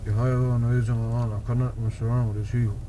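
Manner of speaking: through gritted teeth. Real, not acted. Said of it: "spilling the beans through gritted teeth".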